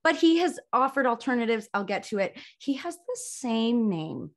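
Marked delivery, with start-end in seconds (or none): 2.6-4.3 drawn-out, weighty reveal; slow and deliberate. Real, not acted. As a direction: stretch out every word for emphasis. First reveal of the looming issue.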